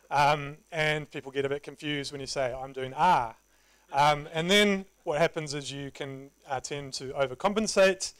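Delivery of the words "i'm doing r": "R" said the New Zealand way, like "ah" with no r sound; New Zealand accent. Shown as a demonstration. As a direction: say "I'm doing R" in a Kiwi accent, "R" with no r. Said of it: "sounding a bit like this".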